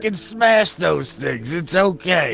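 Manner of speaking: hulking fighter. Acted. Hulking fighter promising the crowd he'll smash zombies, booming. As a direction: lumber through it like a huge brute. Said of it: "huge fucking hulking manner".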